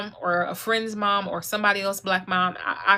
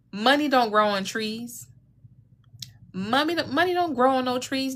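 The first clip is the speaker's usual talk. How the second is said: imitated mom; 4 semitones higher than usual. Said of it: "Your mom said".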